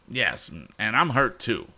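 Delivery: bully whining to Tom after being caught. A narrator's reading. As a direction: whine like a hurt brat. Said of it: "whined Andy".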